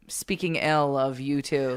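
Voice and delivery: slow hushed whisper. Pretend. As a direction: whisper it like a confession. Mock-guilty aside about a band.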